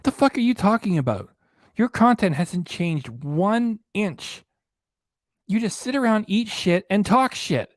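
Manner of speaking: furious rant at a YouTuber; angry outburst. Real, not acted. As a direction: let the fury spill over.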